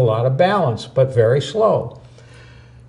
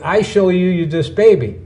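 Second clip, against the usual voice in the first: put-on Korean accent; 5 semitones higher, 3 dB louder than usual. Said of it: "So he said".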